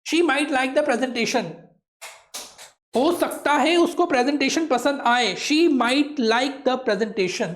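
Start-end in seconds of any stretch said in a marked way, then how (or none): 0.1-1.4 slow model reading. Shown as a demonstration. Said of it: "teacher models English sentence slowly". 5.5-7.5 slow model reading. Shown as a demonstration. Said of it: "teacher models English sentence slowly".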